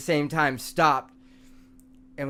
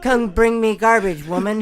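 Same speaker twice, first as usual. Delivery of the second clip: rat king voice; 6 semitones higher, 7 dB louder than usual. Pretend. Playing Rat King ordering woman.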